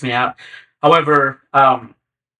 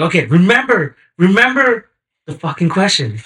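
self-urging; 6 semitones higher, 3 dB louder than usual. Retold or imitated. Urging himself during exam.

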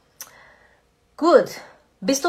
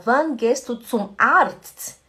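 mixed Swiss German; 3 dB louder, much slower than usual. Shown as a demonstration. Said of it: "misturando o suíço alemão com o alemão".

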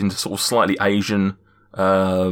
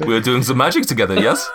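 fast, lightly voiced giant with a high yes; playful conspiratorial giant; quick giant voice; 4 semitones higher than usual. Giant telepathically teasing Greg, quick light voice. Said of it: "as Zephyros did it".

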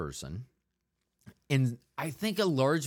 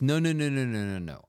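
emphatic; 4 semitones higher, 5 dB louder than usual. Real, not acted. Emphatic denial.

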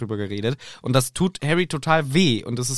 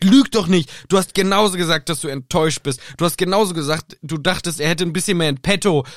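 angry Ron; 3 semitones higher, 3 dB louder than usual. Acted. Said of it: "Er sagt".

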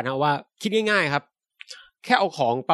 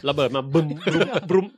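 laughing booms. Real, not acted. Laughing boom sound effects.

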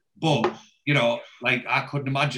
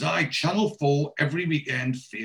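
Geordie dad; 2 semitones higher than usual. Retold or imitated. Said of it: "And he goes".

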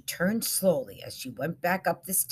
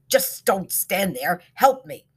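pleading call; 3 semitones higher, 7 dB louder than usual. A narrator's reading. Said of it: "said the echo".

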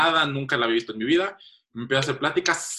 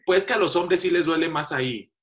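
mock waxer; 5 semitones higher than usual. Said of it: "me dijo".

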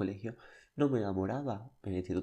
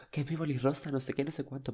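mock frantic; 4 semitones higher than usual. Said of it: "yo loquita".

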